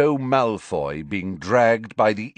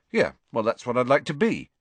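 defiant; 4 semitones higher, faster than usual. Acted. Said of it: "said Harry defiantly".

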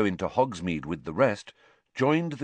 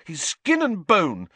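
higher, heated scolding; hot-tempered warning; furious; 7 semitones higher, 4 dB louder than usual. A narrator's reading. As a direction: scold furiously, pitch raised. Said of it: "he said furiously to Hermione".

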